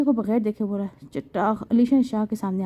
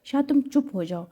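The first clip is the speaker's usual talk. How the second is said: slow, mildly raised rebuke; a hint of a father yelling, drawn out; father silences his son with a slow mock shout; 4 semitones higher, slower than usual. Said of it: "Hamdan صاحب شاہ پر چیخا".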